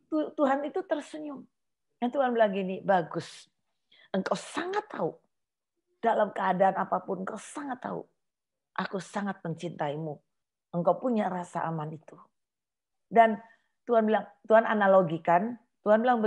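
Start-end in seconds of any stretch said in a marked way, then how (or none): 2.8-12.2 soft, near-whispered reassurance; God answering softly, tender and reassuring; gentle voice of God. Acted. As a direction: speak like a tender father comforting.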